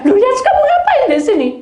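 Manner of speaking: high, fast, laughing shout of surprise; mother startled awake by her son; startled shriek. Retold or imitated. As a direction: jump out of your skin and laugh it off.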